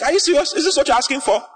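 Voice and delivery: high, astonished disbelief; God amazed at the request; surprised God. Retold or imitated. Preacher voicing God's amazement at Solomon, high and astonished. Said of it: "God was surprised at him".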